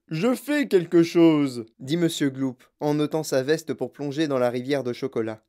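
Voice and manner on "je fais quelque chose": loud, slow protest; raised-voice husband's reply; exasperated retort. A narrator's reading. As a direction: answer back loudly, drawing the words out. Husband answers his shouting wife.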